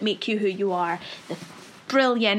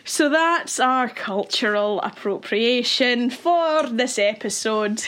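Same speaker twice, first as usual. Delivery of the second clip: mock sign-off; slower than usual. Mock sign-off after teasing.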